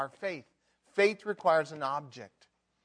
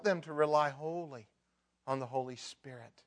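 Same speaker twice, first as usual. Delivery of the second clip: gentle intercession for a sinner; compassionate prayer. Pretend. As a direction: pray for them with a breaking heart. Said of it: "you look at a sinner and you say".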